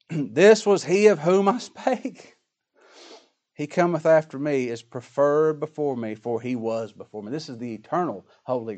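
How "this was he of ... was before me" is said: crying out. Retold or imitated. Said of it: "and cried, saying".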